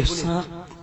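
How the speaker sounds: low, hushed, spaced-out words; furtive rumour-starting. Acted. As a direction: drop the word quietly, letting it spread. Maulana slyly spreads snake rumour. (دبی آواز میں)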